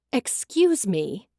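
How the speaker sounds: a slow, firm "Excuse me?" called from the front room; loud inquiry. Acted. Customer in the front room calls for the storekeeper, loud and slow. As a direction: call it out from the next room, drawn out. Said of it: "a loud voice inquired".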